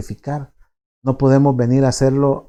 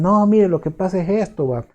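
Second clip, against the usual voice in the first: higher, gentle voice of a kind doctor; reassuring doctor; 5 semitones higher than usual. Retold or imitated. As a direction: soothe a worried patient. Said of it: "le dice".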